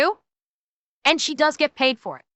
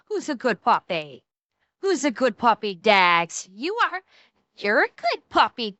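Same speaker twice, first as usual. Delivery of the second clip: talking to a dog; 2 semitones lower than usual. Real, not acted. Cooing to the dog Dax.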